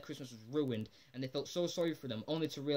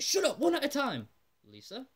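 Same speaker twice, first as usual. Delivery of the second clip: much higher, louder mock angry yell; hammed-up irritated outburst at the family; snapping at family; 11 semitones higher, 6 dB louder than usual. Homer yelling back at Lisa while skidding, mock angry shout. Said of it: "And, and Homer's like".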